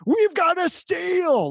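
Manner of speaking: high, slow, epic announcer shout; Carson Daly. Retold or imitated. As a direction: belt it out like a thrilled TV host. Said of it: "it always goes something like this".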